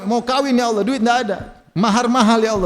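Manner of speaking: high, imploring complaint to God; lightly acted tearful begging; mock tearful prayer. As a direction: pretend to plead with a touch of weeping. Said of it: "Berdoa, nangis-nangis".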